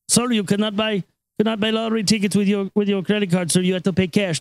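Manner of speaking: lightly put-on Indian accent, polite refusal; mock Indian-accented cashier; Indian store clerk. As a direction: imitate an Indian clerk explaining a rule. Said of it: "stand behind the counter".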